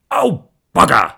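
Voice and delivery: sudden loud, high exclamation; shout. Acted. Husband snatching back the present, startled shout. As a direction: blurt it out in a dismayed shout. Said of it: "Sean shouted".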